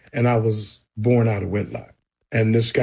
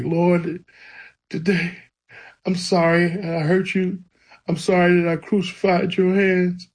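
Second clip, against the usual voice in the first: higher, pleading apology, mildly re-enacted; retold bawling prayer; 5 semitones higher than usual. Boy confessing to the Lord on his mother's bedroom floor, retold tearful pleading. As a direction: imitate a tearful child's prayer without real sobbing. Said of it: "I'm bawling crazy".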